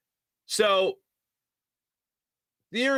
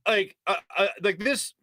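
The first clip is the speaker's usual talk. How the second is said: normal talking voice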